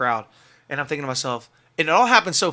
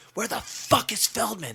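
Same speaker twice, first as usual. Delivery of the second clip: demanding question; 6 semitones higher, 4 dB quieter, slower than usual. Retold or imitated. A singer demands Feldman side stage.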